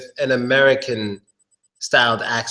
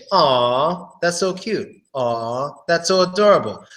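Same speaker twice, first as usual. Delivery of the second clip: cooing at a cat. Shown as a demonstration. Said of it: "I would say".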